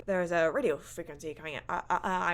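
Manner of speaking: stammering bad impression; Jeff Goldblum. Host badly imitates the movie's nerd scientist, stammering. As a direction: stutter through it like a distracted scientist. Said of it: "I'm doing a terrible Jeff Goldblum".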